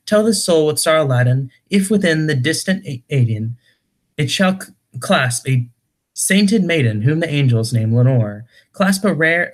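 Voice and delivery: dramatic verse reading, rising and falling line by line; poem recitation. Acted. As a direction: recite gothic verse with a lilting, swinging pitch. Reads a poem aloud.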